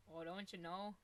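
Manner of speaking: lightly put-on Midwest accent; mock Midwest accent. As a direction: tease with rounded Midwest vowels. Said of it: "has a really Midwest accent".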